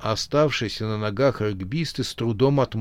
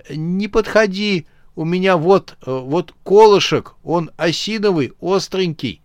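frightened; 5 semitones higher, 4 dB louder than usual. Acted. Lyama scared, brandishing stake.

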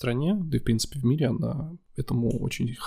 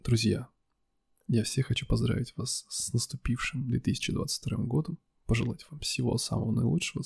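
velvet voice; 4 dB quieter than usual. Shown as a demonstration. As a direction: greet them in a smooth velvety tone. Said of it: "Давай своим бархатистым голосом". (бархатистый голос)

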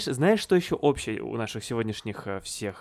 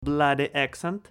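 British accent; 4 semitones higher, slower than usual. Shown as a demonstration. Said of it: "с британским акцентом".

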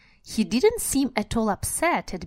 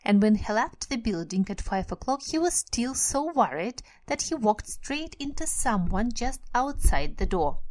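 steady read-aloud storytelling; story narration; 3 semitones higher than usual. Acted. Reads Harry Potter aloud.

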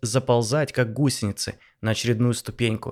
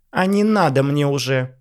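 combative; 3 semitones higher, 4 dB louder than usual. Acted. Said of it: "встала в боевую позу Ванесса".

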